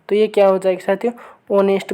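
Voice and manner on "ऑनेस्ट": ऑनेस्ट starting on the vowel, no H sound; silent H. Shown as a demonstration. Teacher showing students the silent letter in ऑनेस्ट, H dropped. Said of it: "बोलेंगे इसे".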